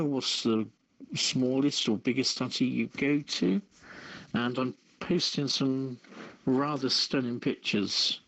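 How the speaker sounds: ordinary delivery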